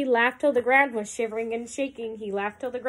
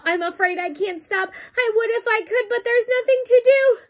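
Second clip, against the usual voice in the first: helpless, building urgency; 10 semitones higher, 4 dB louder than usual. A narrator's reading. Elephant warns it cannot stop, rising urgency. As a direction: voice climbing high and louder.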